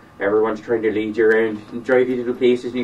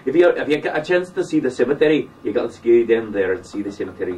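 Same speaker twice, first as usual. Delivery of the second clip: lightly imitated Scottish accent; hint of comic Scottish patter. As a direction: imitate a Scottish local rambling on. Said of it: "this is Scottish, like, Scottish accents".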